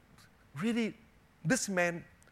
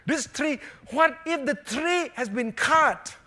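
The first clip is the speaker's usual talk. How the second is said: high, loud, drawn-out disbelief; acted-out astonished challenge; mock incredulity; 10 semitones higher, 7 dB louder than usual. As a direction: question it as if the idea is absurd. Retold incredulous reply to old man.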